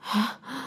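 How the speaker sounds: sudden soft intake of breath; gasp. Acted. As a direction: gasp softly as if startled. King starts at Sumantra's arrival.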